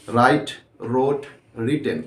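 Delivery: slow, deliberate verb forms, each word set apart; careful pronunciation drill. Shown as a demonstration. Teacher reads verb forms aloud slowly for students to repeat. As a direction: spell out every form so students can copy it. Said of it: "एक बार अच्छे से आप इसका pronunciation, accent देख लीजिए".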